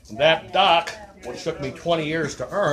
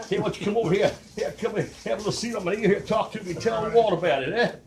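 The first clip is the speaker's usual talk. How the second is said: Walter Brennan voice; 5 semitones higher, faster than usual. Retold or imitated. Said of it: "sounded like Walter Brennan".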